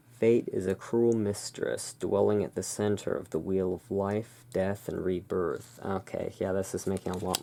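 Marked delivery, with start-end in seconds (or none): 0.1-5.8 dramatic card reading. Acted. Reads card description.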